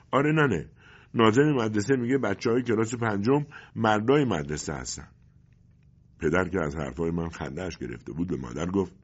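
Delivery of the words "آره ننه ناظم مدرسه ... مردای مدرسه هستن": put-on higher, louder gleeful boy; happily. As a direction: chirp it out proud and happy. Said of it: "با خوشحالی گفتم". (پسربچه با خوشحالی و صدای زیرتر)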